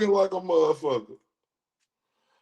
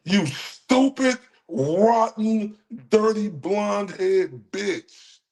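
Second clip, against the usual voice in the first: angry insults; slower than usual. Real, not acted. Cursing out the blonde woman who accused him, angry. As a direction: spit each insult out slowly.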